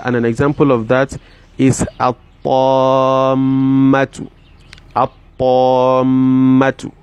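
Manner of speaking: At-Tammatu said slowly, the l swallowed into a doubled t; assimilated lam. Shown as a demonstration. Teacher demonstrating assimilation of the lam to students. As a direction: drag out At-Tammatu with no trace of the l. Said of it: "you are going to assimilate the Lam".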